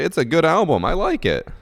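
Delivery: high, loud indignant squeal; high yelled defense. Retold or imitated. Defending the album to the alt girl, high squealed yell.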